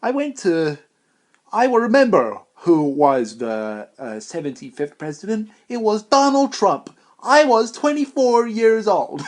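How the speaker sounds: put-on high, wavering old man voice; old guy. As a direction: play a doddering old man recalling the past. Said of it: "I'm gonna be like an old guy".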